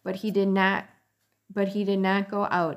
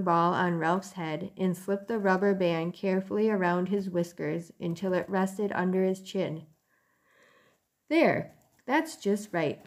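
gentle storybook narration; reading to children. A narrator's reading. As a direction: read it like a bedtime story. Reads a chapter aloud to children.

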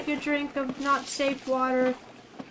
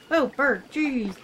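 startled streamer; 3 semitones higher, 4 dB louder, slower than usual. Real, not acted. Startled by bird jump scare.

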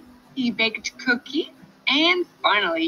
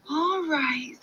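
sighing; 7 semitones higher than usual. Acted. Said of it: "sighed the piglet".

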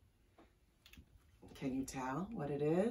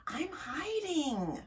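nervous hiding; 9 semitones higher, slower than usual. A narrator's reading. Possum hiding from night animals.

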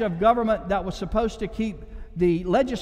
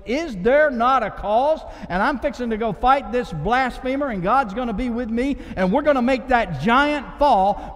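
bold David; 3 semitones higher, 3 dB louder than usual. Acted. Voicing David to the boys.

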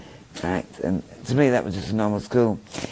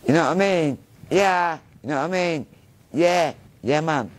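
Manchester slang; 5 semitones higher than usual. Retold or imitated. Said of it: "So the first words I learnt was that".

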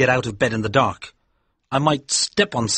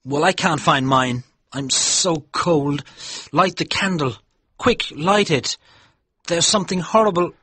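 terror building as he begs for light; panicked Haldane; 8 semitones higher than usual. Acted.

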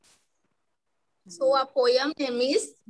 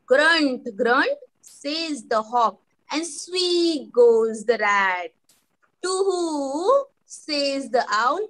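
measured, stretched nursery-poem reading; poem recitation. Shown as a demonstration. Teacher models poem for class, measured recitation. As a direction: recite each animal line for children to copy. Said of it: "I will repeat and sing".

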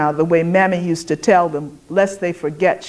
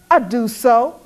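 indignant; 6 semitones higher, 3 dB louder than usual. A narrator's reading. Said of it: "the white woman said indignantly".

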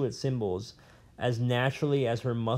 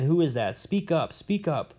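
prisoner's demand; 5 semitones higher than usual. Acted. Old prisoner demands answer.

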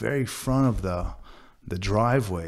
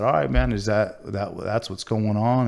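upset; 4 dB louder than usual. Retold or imitated. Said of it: "I got a little upset".

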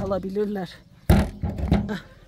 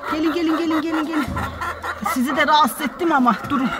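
fond high-pitched calls to her hens; cooing to chickens; 7 semitones higher than usual. Real, not acted. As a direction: coo at the hens like they're babies. Calling chickens to feed.

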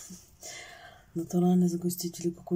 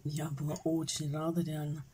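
spoon against the lips; talking while eating yogurt; 2 semitones lower, 5 dB quieter than usual. Real, not acted. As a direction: mouth partly full. Seen 2: Yogurt-laden spoon held against lips throughout the labelled words.

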